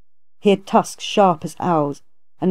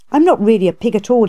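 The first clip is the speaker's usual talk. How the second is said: hasty protest; 4 semitones higher, 4 dB louder, faster than usual. Acted. Monster protesting his origin.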